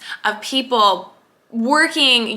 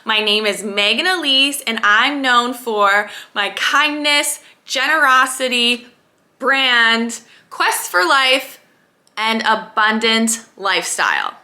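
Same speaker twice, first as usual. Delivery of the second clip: demo affirmation; slower than usual. Shown as a demonstration. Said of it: "So for example".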